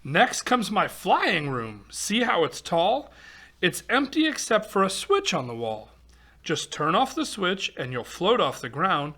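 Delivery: lively singsong storybook read-aloud; reading to children. Acted. Reading a rhyming picture book aloud to kids, lively storytelling. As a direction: read the rhyme to a young audience.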